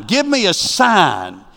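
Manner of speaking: drawn-out, begging "Give me a sign"; mock pleading. Preacher mimicking believers begging God, slow pleading.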